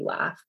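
"laugh" as "lahf", vowel low and back. Shown as a demonstration. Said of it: "lower and back in the mouth".

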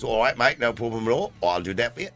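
English accent, lightly put on; Michael Caine. Paddy Englishman answering the boss, mock English accent. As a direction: do a matey English worker. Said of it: "Michael Caine impression".

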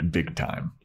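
unvoiced repeat of big time; whispered aside; whispered echo. Real, not acted. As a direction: breathe it back softly. Whispered echo of own remark.

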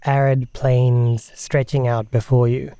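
slow, measured game master narration; scene setting. Acted. Game master describing arid plains to players, measured narration. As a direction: unfold the landscape slowly for the players.

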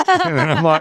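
words squeezed out through a laugh. Real, not acted. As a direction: laugh high through the line. Laughing while retelling story.

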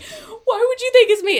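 laughing mock innocence. Ava feigning innocence, retold.

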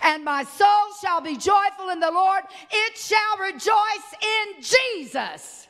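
loud rising proclamation, slowing on Jesus; proclaimed loudly. Shown as a demonstration. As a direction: shout the verse out with Jesus in it. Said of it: "Take out salvation and put in Jesus".

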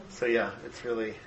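hoarse, fading voice; losing voice. Real, not acted. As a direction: voice giving out. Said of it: "I'm losing my voice".

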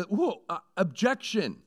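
high, loud courtroom objection; mock objection. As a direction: leap up and object. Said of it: "Like he wants to say".

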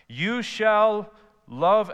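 You shall love, SHALL drawn out high and loud; slow stressed proclamation. Acted. Preacher to the church, stressing "shall", slowly and loud. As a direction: lean hard on "shall", very slow. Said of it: "again, no options here".

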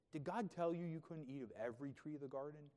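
derogatory, incredulous question, pitch lifted early; mocking. Shown as a demonstration. Preacher voicing Satan questioning Eve, mocking and derogatory. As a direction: question it as if it were ridiculous. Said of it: "Like, in a mocking, sort of, like, derogatory way".

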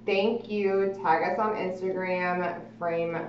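reading note aloud. Acted. Reads handwritten note aloud.

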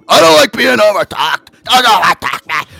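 hammed-up angry customer shouting; mock angry yell. Angry caller refusing to be overtalked, mock yelled. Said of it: "He kept on telling me".

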